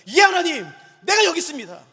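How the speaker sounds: fervent acted pledge; acted ardent response. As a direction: call out as a volunteer answering God. Acts eager answer to God's call.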